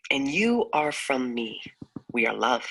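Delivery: spoken-word poem finale; poem reading. Acted. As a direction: hand the last words gently to your partner. Poem's closing lines.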